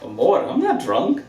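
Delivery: overly affectionate tipsy charm; drunk. Acted. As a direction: gush at her like a man who's had too many. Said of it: "We'll talk when you've sobered up".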